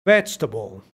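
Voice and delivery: low "Vegetable" in three syllables, VECH-ta-bol; silent middle E. Shown as a demonstration. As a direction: join VECH straight to "tabol" in "Vegetable". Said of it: "no suena esta E". ("Vegetable" grave, sin la segunda E)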